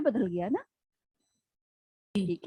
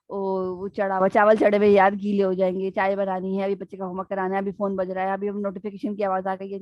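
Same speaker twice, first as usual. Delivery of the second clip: frantic inner thoughts; 4 semitones lower than usual. Retold or imitated. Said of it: "ہمارے ذہن میں کیا ہوتا ہے".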